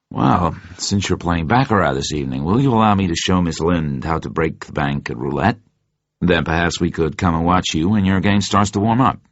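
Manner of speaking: a lightly voiced, courteous Leiter; Felix Leiter's voice. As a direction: offer the lady a friendly invitation, only a hint of a new voice. Leiter invites Vesper to roulette.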